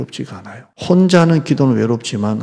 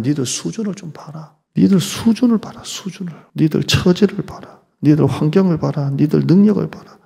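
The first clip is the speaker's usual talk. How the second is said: scornful, higher jeering voice; taunting the weak believers, mocking; 5 semitones higher than usual. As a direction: sneer it like an enemy mocking. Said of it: "이렇게 조롱을 합니다".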